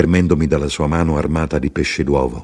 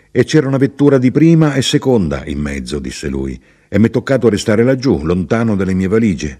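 a touch higher and brisk, pleased with himself; lightly voiced chatty traveller; 4 semitones higher, 3 dB louder than usual. The traveller explains his train change to the narrator, lightly voiced and brisk. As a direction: rattle it off like a talkative fellow passenger.

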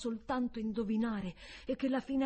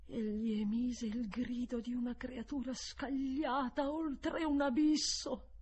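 raised, intense storytelling; climactic narration; 6 semitones higher than usual. A narrator's reading. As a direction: let the narration lift high with the fall.

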